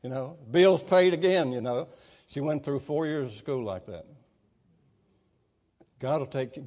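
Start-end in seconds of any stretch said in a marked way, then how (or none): 0.5-1.5 higher, louder, slow happy call; retold joyful shout. Student calling down the hall about her bill, joyful shout. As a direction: echo a student's glad shout. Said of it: "she'd come shouting down the hall".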